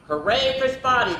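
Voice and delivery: high-pitched hooray; acted storybook jubilation; cheering. A narrator's reading. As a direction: cheer it like a crowd of animals. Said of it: "the other animals cheered".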